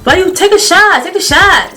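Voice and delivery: pushy. Retold or imitated. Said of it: "he was just so aggressive with it".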